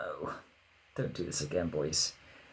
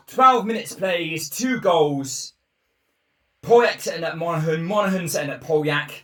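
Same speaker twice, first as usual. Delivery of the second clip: buzzing; 7 semitones higher, 4 dB louder than usual. Real, not acted. Still buzzing after equaliser.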